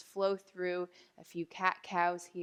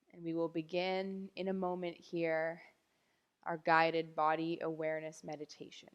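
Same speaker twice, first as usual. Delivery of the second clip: guided meditation; 2 semitones lower than usual. Real, not acted. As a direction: ease them down gently, leaving long silences. Begins lying-down body awareness meditation.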